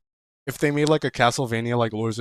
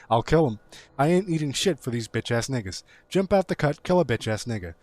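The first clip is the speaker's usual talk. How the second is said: hyped lyric reading. Acted. Streamer reading a submitted song, hyped lyric reading. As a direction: read it like a hyped rap verse. Reads second lyric sheet.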